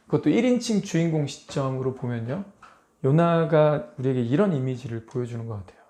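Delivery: normal talking voice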